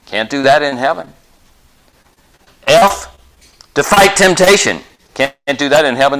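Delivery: fervent pulpit build; preaching acronym. Real, not acted. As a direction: proclaim each point with rising fervor.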